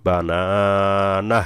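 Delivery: বা না না with the last না cut short on an h; stopped ending. Shown as a demonstration. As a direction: hold the middle না, stop short on the last. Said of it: "হাতে সাকিন করে ফেলতে হবে". (বা না না, শেষে সাকিন করে থামা)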